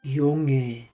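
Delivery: put-on old moon calling out; a kindly old moon, loud. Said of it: "sagte er".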